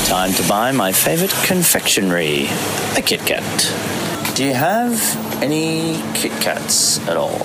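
side-mouth talk. Shown as a demonstration. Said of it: "talking out the side of my mouth".

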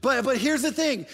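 loud, high shout cutting him off; defiant shout at Satan. Acted. Preacher shouting down Satan for the congregation, defiant. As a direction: stand up to the accuser. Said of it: "stop the enemy and say".

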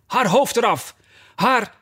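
high-pitched, enraged royal command; furious queen's cry. A narrator's reading. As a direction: spit out a furious order without much added volume. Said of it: "keek haar aan als een wild dier en schreeuwde". (woedend uitgeroepen bevel van de koningin)

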